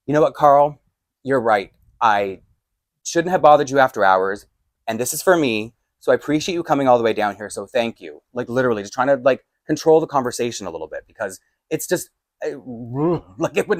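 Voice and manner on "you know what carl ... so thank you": measured, understated peacemaking; conciliatory. Retold or imitated. Placating the angry man after hours, conciliatory. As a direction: concede gently to defuse it. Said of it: "change the tone of this conversation".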